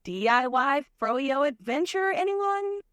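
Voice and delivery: put-on bubbly Valley Girl. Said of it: "get back to the bubbly vibes".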